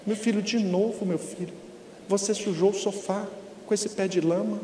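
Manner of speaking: mother gently scolding about the muddy sofa; speaking softly. Retold or imitated. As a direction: correct him quietly. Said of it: "mamãe só fala baixinho".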